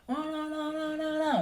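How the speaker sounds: very high, held mock ranting; mock angry intonation. Shown as a demonstration. Showing how other ethnic groups sound when angry, high mock rant. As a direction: imitate a heated rant in nonsense syllables. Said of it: "intonasinya kencang".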